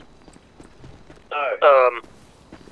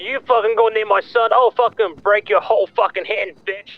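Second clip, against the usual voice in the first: angry threat; 2 semitones higher than usual. Acted. Father threatens man near his son.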